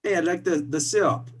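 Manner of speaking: put-on a not very good Canadian accent, drifting toward Italian; bad Canadian accent. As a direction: do a clumsy mock Canadian accent. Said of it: "not very good Canadian accent".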